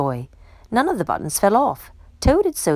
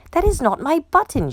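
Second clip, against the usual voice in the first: shouting; 9 semitones higher than usual. A narrator's reading. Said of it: "shouted Toad".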